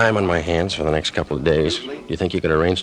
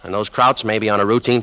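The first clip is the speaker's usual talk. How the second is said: much higher and louder, pressing the point; urgent protest; 7 semitones higher, 4 dB louder than usual. Acted. Lieutenant stopping Alcine's eager men, raised urgent voice. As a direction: cut them off and hold them back.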